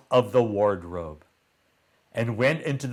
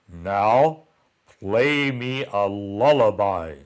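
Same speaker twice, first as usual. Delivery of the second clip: mild roar; 2 semitones lower, 4 dB louder than usual. Acted. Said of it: "roared the giant".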